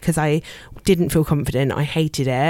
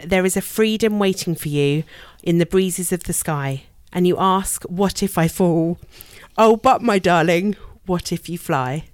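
poem reading. Shown as a demonstration. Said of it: "Can I read you a little poem?".

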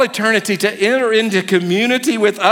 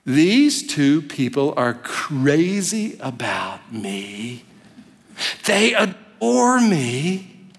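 adoring grandkids; slower than usual. Pretend. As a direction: hush it out dreamily as a smitten child. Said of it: "And they're going".

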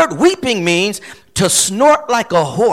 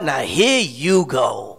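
exasperated; 9 semitones lower, 4 dB quieter, slower than usual. Acted. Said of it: "rolling his eyes, saying to himself".

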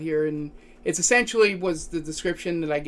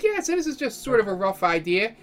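higher-pitched clerk explaining; desk clerk character; 4 semitones higher than usual. Acted. Clerk handing guests a rough map, higher character voice. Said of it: "He's like".

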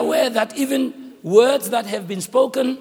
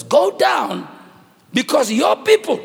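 mildly raised, emphatic command; angry God. Acted. God sends Moses down to his corrupt people, angry. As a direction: order them down in anger. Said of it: "he's so angry".

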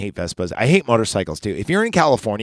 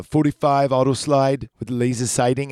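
Terminator voice; 3 semitones higher than usual. Retold or imitated. Terminator ordering at gun store.

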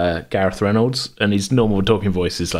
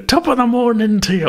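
stereotypical Irish. Retold or imitated. Podcaster mocking an over-the-top Irish accent, hammed-up stage Irish. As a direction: ham up a cliché Irish greeting. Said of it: "I'm not like".

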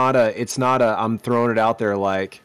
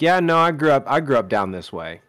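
put-on Southern accent. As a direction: slip into a down-home Southern accent. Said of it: "my southern accent starts to come out".

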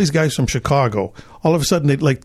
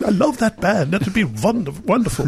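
quoting Ben; 4 semitones higher than usual. Retold or imitated. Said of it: "He was like".

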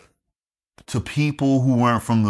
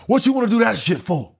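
higher-pitched mocking challenge; scornful uncle; 11 semitones higher than usual. Uncle challenging his nephew's Air Force plan, scornful. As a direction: imitate an uncle pooh-poohing the plan.

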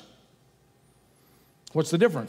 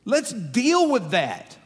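gently saying; 3 semitones higher, much slower than usual. Retold or imitated. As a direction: coax gently, drawing the words out. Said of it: "just gently saying".

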